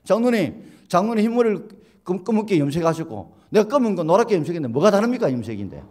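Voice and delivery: high, loud, defiant retort; cheeky talking back. Retold or imitated. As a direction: answer back word by word, unafraid. Youth talks back to elder. (청년이 장로님께 또박또박 대드는 말투)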